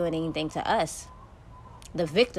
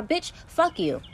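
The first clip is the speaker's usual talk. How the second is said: drawn-out retort; 9 semitones higher, slower than usual. Real, not acted. Snapping back at critics.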